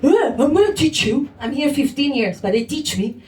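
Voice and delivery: a hint of a patronising lecturer; condescending local. Mocking the people who lecture her on Ireland. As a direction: play the know-it-all local. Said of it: "people are like".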